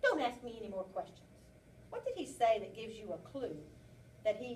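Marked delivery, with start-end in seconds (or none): 0.0-1.2 defensive rabbit. Acted. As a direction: deny it too hard, guilty. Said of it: "Think about what he says".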